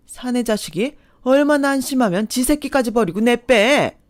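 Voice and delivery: loud, high furious tirade; furious scolding. Acted. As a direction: tear into him without stopping. Mother berates the ex.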